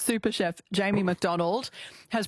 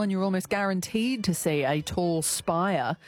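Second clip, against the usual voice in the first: radio host read. Real, not acted. Radio host links to news.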